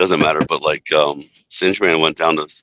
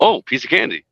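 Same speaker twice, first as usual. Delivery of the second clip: much higher cartoon voice; higher pitched; 10 semitones higher than usual. Shown as a demonstration. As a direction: push the pitch way up. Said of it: "No, higher pitched".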